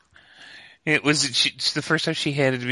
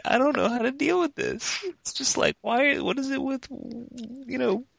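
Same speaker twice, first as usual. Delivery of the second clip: higher, helpless frazzled complaint; exasperated dad; 12 semitones higher than usual. Retold or imitated. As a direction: throw up your hands at it.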